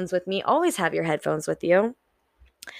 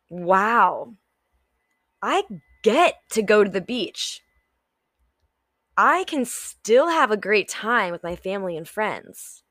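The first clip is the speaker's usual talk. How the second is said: bright, cheerful gratitude; upbeat grateful. Shown as a demonstration. Showing viewers the positive mindset, cheerful. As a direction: sound glad to be at the beach. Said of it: "Which one would you choose".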